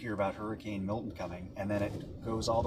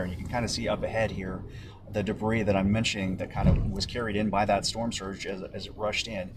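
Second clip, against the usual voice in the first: raised voice over the storm noise; shouting over wind; 4 dB louder than usual. Real, not acted. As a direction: project loudly over the wind. Reporter live in hurricane wind.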